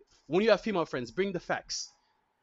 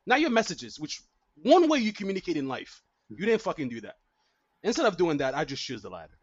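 ranting blowup; 3 semitones lower than usual. Retold or imitated. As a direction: go off on them, building heat. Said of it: "Versus be like".

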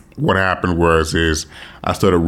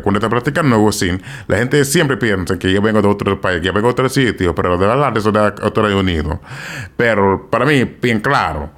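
Dominican accent. Shown as a demonstration. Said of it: "when I speak in my Dominican accent".

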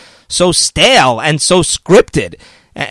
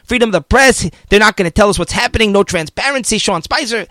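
mock media panic; 3 semitones higher than usual. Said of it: "but the media ran wild".

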